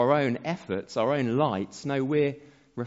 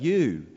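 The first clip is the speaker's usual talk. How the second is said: "you" a little louder on its own; stressed you; 4 dB louder than usual. Shown as a demonstration. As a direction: hit "you" clearly, alone. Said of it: "the emphasis is on the first word".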